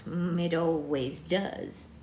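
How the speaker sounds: slow, weary crone; old witch voice. Acted. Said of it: "only witch voice I've got for old ladies".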